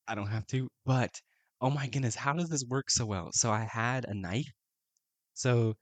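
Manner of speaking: real disbelief at how it fits; startled wonder; amazed. Real, not acted. Shocked by the card's fit.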